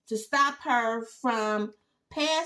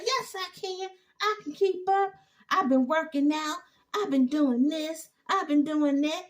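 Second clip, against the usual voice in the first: eager mock Zach; 5 semitones higher than usual. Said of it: "he was like".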